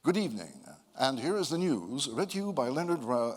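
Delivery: a hint of the news voice; lightly voiced anchor losing his name. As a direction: start the news then stumble. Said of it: "it went exactly like this".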